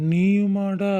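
you too, man?; mock surprise. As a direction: throw it back, pretending to be stung. Friend teases, mock hurt reply.

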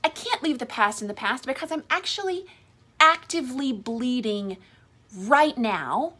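lightly voiced apologetic wife. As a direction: voice her anxious, rushed apologies. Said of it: "And you're like".

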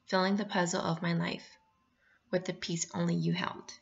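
measured, expressive read of a poem; gentle poetry recital. Acted. Teacher reads poem aloud.

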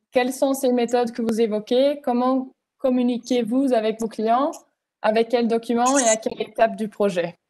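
non-native reading of French questions; reading French aloud. Real, not acted. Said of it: "I'm gonna try to read it in French".

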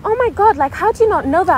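high, loud mock incredulity; scornful disbelief. Kids reacting to someone's question, scornful disbelief. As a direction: act out an appalled, belittling kid. Mocking kids quoted in story.

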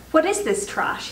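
a high, contemptuous question; scornful demand. A narrator's reading. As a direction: sneer at the book in disgust. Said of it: "he said, snatching the book".

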